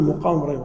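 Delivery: مقام said "muqām", with u after the mim; rounded first vowel in مقام; wrong damma reading. Shown as a demonstration. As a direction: quote the mistaken "muqām Ibrāhīm". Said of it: "غ-، خطأ".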